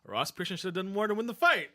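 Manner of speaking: podcast host mimics TV analysts, mock pundit tone; quoting the analysts. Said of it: "and they said".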